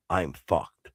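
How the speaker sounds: imitated hopeless resignation; sinking realization. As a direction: voice a man realizing he's done for. Voicing man's sinking realization.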